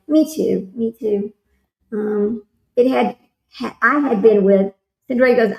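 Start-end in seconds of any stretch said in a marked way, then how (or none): none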